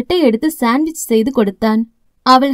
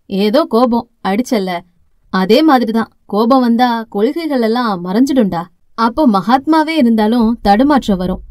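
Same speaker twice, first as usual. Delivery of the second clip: lightly voiced father; 2 semitones lower than usual. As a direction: soothe her like a patient dad. Father consoles daughter.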